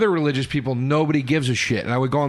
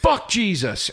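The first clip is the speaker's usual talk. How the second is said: drawn-out punchline; much slower than usual. Retold or imitated. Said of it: "then I would go".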